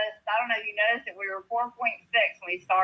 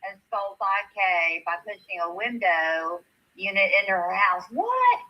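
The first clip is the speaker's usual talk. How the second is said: put-on Southern accent. Co-host reading a viewer's comment about a cousin, Southern accent. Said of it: "take it with your Southern accent".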